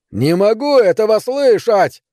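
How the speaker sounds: high, slow, loud scream. Acted. Neil screaming at the ghostly howl, terrified scream. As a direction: yell it stretched out in terror. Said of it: "завопил он".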